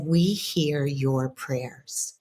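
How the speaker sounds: very slow and gentle, each word given weight; slow hushed message. Retold or imitated. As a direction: deliver it slowly, like a blessing. Ancestor's message in a dream.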